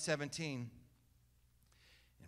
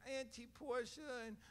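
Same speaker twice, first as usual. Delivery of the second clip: a hint of a sweet goddaughter, softer and higher; sweet little girl; 6 semitones higher, 9 dB quieter than usual. Preacher voices his goddaughter charming her aunt and uncle, soft sweet. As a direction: lightly voice a sweet child. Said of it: "And she was like".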